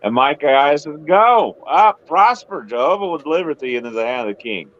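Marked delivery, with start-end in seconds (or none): 1.1-4.7 sarcastic. Retold or imitated. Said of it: "dripping with sarcasm".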